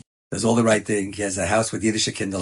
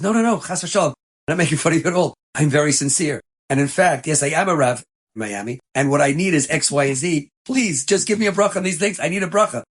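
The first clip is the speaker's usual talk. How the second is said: earnest plea; 5 semitones higher, 3 dB louder than usual. Retold or imitated. Rabbi pleads sincerely.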